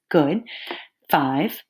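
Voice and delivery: ordinary talk, nothing marked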